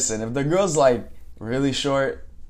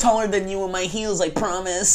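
put-on higher, slow, laughing girly voice; laughing mock quote; 6 semitones higher, slower than usual. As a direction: giggle through it like a dating bio.

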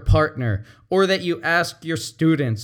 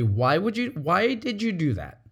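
sincere; 3 semitones higher than usual. Shown as a demonstration. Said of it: "if you're asking it sincerely".

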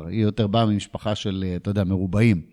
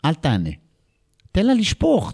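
coaching himself; 3 semitones higher, 3 dB louder than usual. Retold or imitated. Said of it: "ואז אמרתי".

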